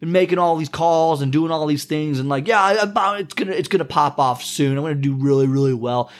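lightly hammed-up boastful voice; bragging friend. Imitating a friend bragging about his calls, lightly hammed-up boast. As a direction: puff yourself up, a mild mock brag. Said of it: "you get the voice inflection there".

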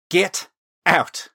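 high, loud, angry order; narrated woman's furious outburst; spat through clenched teeth. A narrator's reading. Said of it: "Gwen spat the words at Talon through clenched teeth".

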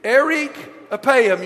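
"Erik apaim" slowly, for others to repeat; slow, deliberate "Erik apaim"; Hebrew pronunciation. Shown as a demonstration. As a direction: lead a group through "Erik apaim", word by word. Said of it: "Say it with me".

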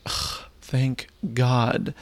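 drawn-out, relieved groan; slow relieved sigh. Retold or imitated. Offered a drink by the hosts, slow relieved groan. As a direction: let the relief slowly pour out.

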